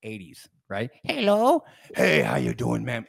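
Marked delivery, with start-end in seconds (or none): 1.0-1.6 very high, louder rising hello; high-pitched greeting of an eighties old lady; little old lady. Retold or imitated. Old lady in her eighties at the door, high little voice. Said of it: "I mean, like, eighties, right?". 1.9-3.0 salesman toning down his big greeting; a rough hello, eased a little; rough but softer. Retold or imitated. Salesman greeting an old lady, rough but softer. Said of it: "still rough, but softer".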